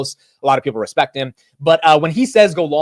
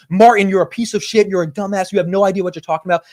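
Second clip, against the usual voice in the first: higher, louder retold insult, fast at the end; mock insulting rant; 6 semitones higher, 4 dB louder than usual. Mike Alfred insulting Martin on stage, mock angry. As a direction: fling the insults like a heckler. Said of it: "mom and dad fighting aggressively".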